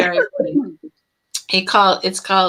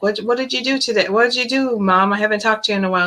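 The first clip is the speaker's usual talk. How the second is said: put-on higher, quicker teasing young man; mocking son; 4 semitones higher, faster than usual. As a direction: play the baffled son poking fun at his mom. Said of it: "he'll be like".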